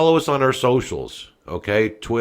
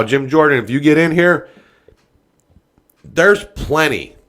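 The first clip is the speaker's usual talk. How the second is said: fired up; 3 semitones higher, 4 dB louder than usual. Real, not acted. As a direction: yell it at the president, all fired up. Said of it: "I'm getting a little fired up".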